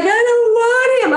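high, slow, whiny pout; imitating her whining. Host mimics the castmate refusing the guy: high whine. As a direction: play the stubborn girl refusing him. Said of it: "She's like".

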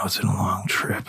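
whispered tiredly; weary mutter. Acted. Tired knight brushing off questions, whispered. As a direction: sigh it out, worn down.

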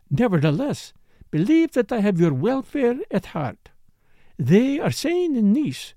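lightly voiced dancer with an accent; insistent foreign dancer. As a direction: play the accented dancer, a little pointed.

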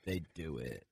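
low, slow creaky fry; vocal fry. Shown as a demonstration. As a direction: sink into fry for emphasis. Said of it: "emphasizing how important something is".

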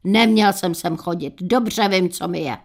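a touch of grumpy annoyance, lightly voiced; an old father, lightly irritated at the doctor; mildly fed up. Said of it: "otráveně řekl".

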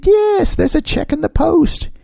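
high-pitched mock dad voice; acted dad's reply. Daughter quoting Dad's promise of birthday money, high acted voice.

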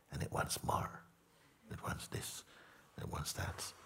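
hushed, unvoiced whisper of a craving. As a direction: breathe it out like a secret urge. Voicing the craving's demands.

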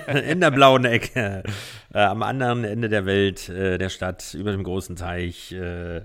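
booming ring announcer, drawn out; lucha libre announcer. Pretend. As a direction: call it like a wrestling ring announcer. Guest introduced like a ring fight.

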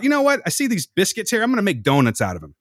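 high, eager sudden idea; kid's bright idea. Retold or imitated. Hungry latchkey kid plotting homemade donuts, high and eager. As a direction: sell it like a hungry kid's big plan.

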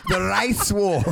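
South African accent through laughter; hammed-up South African impression. Shown as a demonstration. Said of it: "could you do an impression".

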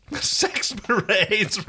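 slow, drawn-out eager call. Acted. Rigel calls eagerly.

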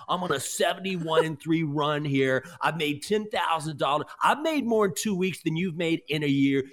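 slow, pumped-up hype-man brag; a hint of a cocky tout; bragging tout. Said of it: "someone that talks like this".

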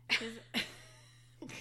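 talking around a bite of olive; chewing while talking. Real, not acted. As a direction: mouth half full, chewing. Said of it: "As I get another olive".

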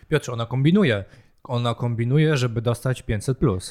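deadpan sarcastic accusation. Real, not acted. Co-host needling Piotr about mothers and benefits, very sarcastic. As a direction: feign suspicion with dry sarcasm. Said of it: "ja to powiedziałem bardzo sarkastycznie".

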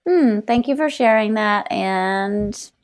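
mock-serene politeness. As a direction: play someone calmly refusing to react. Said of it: "I wish I had not reacted".

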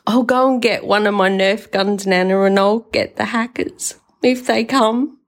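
a hint of an eager grandson; imitated six-year-old. Grandson offering Nana his Nerf gun, imitated child's voice. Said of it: "he's six, right?".

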